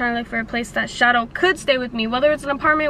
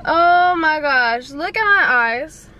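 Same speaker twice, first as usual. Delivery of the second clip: surprised; 3 semitones higher, 4 dB louder, slower than usual. Real, not acted. Sees her puffy eyes.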